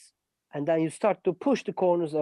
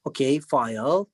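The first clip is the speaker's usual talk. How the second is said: put-on lower, slow, patient talk as if to a small child; speaking to a child; 4 semitones lower than usual. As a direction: spell out each step slowly like a patient teacher to a kid. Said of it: "like speaking to a child".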